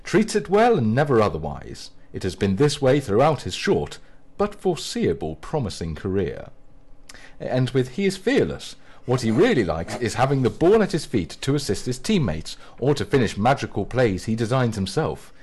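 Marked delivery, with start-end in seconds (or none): 0.0-6.5 mock-grand reading; read aloud. Shown as a demonstration. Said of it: "I'm gonna read a few of these out". 7.9-15.3 mock-grand profile reading; a touch of solemn praise; read aloud. Shown as a demonstration. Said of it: "read a few of these out".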